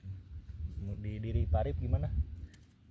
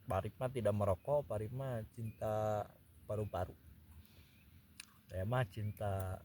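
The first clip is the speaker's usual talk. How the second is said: cigarette in mouth. Real, not acted. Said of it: "sambil ngerokok".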